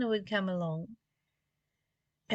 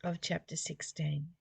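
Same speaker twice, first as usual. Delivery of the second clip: measured, reverent reading of the text; scripture reading; 2 semitones lower than usual. Acted. Teacher reads scripture to listeners, measured and reverent.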